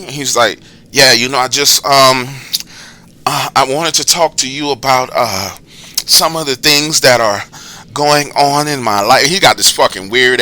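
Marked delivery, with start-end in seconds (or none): 0.9-9.3 lightly voiced creepy caller; halting, with a hint of movie psycho; creepy killer-type voice. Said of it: "it puts the lotion on its skin type fucking voice".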